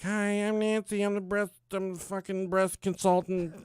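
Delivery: high, sing-out greeting of a consultant; mock high-pitched consultant; chirpy consultant impression. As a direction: put on a high, over-eager introduction. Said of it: "she came in. She's like".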